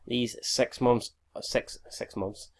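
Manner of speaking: stumbling, repeating words; tired early-morning stutter. Real, not acted. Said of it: "I'm stuttering and just mispronouncing words".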